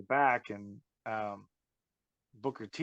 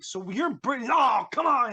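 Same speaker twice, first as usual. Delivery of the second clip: much higher, louder mocking disbelief; mock incredulous scoff; 11 semitones higher, 4 dB louder than usual. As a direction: scoff at the absurd claim. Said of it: "I was like".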